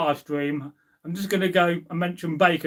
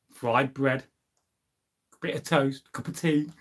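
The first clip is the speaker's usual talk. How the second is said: slow, savouring list of breakfast items, slightly softer; tempting food list; 3 semitones lower, 3 dB quieter than usual. Shown as a demonstration. Tempting workmates over a fry-up, savouring slowly. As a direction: linger on each item to tempt friends. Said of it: "It's the way you say it".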